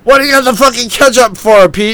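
high, fast mock-angry demand; exasperated, high-pitched acted rant; incredulous outburst. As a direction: act out losing it at a friend. Randy losing it at Pete.

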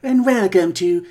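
slow, ghoulish horror-host voice; creepy host drawling a welcome; Crypt Keeper voice. Acted. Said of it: "It's your old pal Crypt Keeper here".

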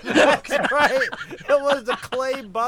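loud laughing. Real, not acted. Friends cracking up over memory.

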